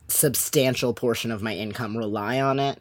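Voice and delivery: hoarse from yelling all week. Real, not acted. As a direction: voice worn rough and hoarse. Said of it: "which is why I sound like this".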